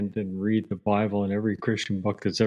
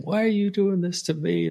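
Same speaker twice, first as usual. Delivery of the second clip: high, pleading mock cry at heaven; imitating someone railing at God, voice pitched up; 9 semitones higher than usual. Host voicing a man shaking his fist at God, high mock plea.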